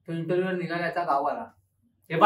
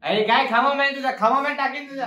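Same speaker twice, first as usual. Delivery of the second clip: higher-pitched heated protest; indignant rant; 5 semitones higher than usual. Acted. Friend protests being called jobless, heated and higher. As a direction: play the offended friend. Friend ranting at the mock interview.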